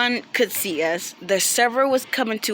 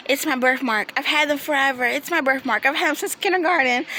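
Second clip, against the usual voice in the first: higher-pitched mock-wounded defense; imitating hurt protest; 5 semitones higher than usual. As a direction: plead it like a hurt man, climbing higher. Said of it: "he was really hurt from that".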